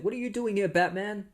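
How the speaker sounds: high-pitched imitation of an indignant cop; mock indignant challenge. Cop confronts Batman at the mall, mock indignation.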